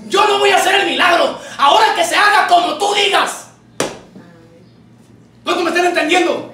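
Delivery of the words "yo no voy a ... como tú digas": higher, forceful proclamation; emphatic decree. Acted. Jesus granting the woman's request, emphatic decree. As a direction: declare it at a raised pitch.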